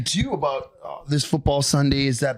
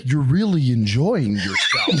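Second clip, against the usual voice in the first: laughing tease; 3 semitones lower than usual. Retold or imitated. Retelling a teasing remark.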